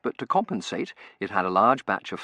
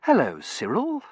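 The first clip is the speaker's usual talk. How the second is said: gentle slow greeting, lifted in pitch; kind, lilting hello; kindly; 9 semitones higher, 5 dB louder than usual. A narrator's reading. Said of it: "she said kindly".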